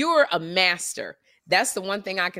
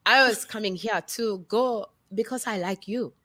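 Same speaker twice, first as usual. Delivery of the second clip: deliberate, halting Botswanan accent; carefully spaced words in a Botswanan accent. Shown as a demonstration. Actress redoes her audition on request, Botswanan accent. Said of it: "My accent".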